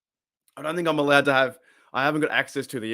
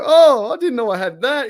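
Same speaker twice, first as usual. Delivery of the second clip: imitating the player; 10 semitones higher, 7 dB louder than usual. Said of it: "He's like".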